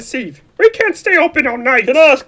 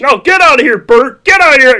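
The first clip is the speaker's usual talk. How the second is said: angry shouts; 6 dB louder than usual. Acted. George fights off Bert.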